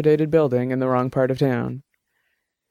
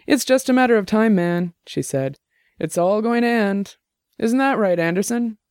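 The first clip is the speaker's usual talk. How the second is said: higher-voiced Jenny, heated and arguing; argumentative tipsy woman; 7 semitones higher than usual. Tipsy Jenny arguing with her roommate's friend, heated. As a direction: push the point hard, a few drinks in.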